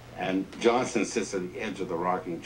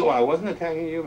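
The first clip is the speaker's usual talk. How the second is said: higher, louder defensive reply; protesting Wallace; 11 semitones higher, 6 dB louder than usual. Retold or imitated. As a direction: defend yourself quickly.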